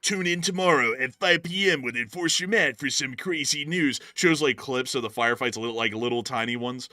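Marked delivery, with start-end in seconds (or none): 0.0-4.0 dramatic movie trailer voice; trailer announcer. Pretend. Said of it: "we're giving a trailer".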